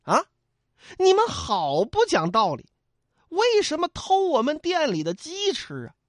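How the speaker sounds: high-pitched, aggrieved shop waiter complaining; indignant waiter. Acted. Waiter scolding guests over the stolen rooster, high and indignant. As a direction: protest like a wronged innkeeper's boy.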